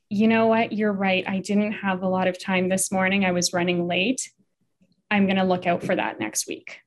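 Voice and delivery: even, conceding tone; taking responsibility. Shown as a demonstration. Partner answering criticism about the garbage, calmly conceding. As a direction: calmly own up to it. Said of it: "taking responsibility would be something along".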